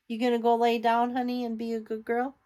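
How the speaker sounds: quick, high coaxing pet talk. Real, not acted. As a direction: sweet-talk the cat to bed. Cooing to her cat.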